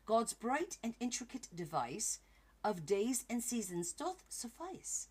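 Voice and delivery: put-on a bigger British accent, slow and lilting; theatrical British recital. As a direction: read the poem again, hamming up the British accent. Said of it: "fun saying it in the British accent".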